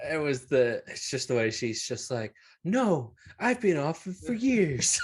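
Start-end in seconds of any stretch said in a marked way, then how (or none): 2.6-5.0 high, mock-offended protest; hammed-up defensiveness; indignant denial. Acting out her indignant denial.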